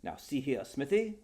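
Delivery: a hint of a stern lord; stern duke.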